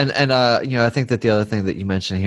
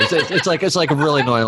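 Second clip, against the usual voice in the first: laughing; 5 semitones higher than usual. Real, not acted. Laughing about kid's whistling.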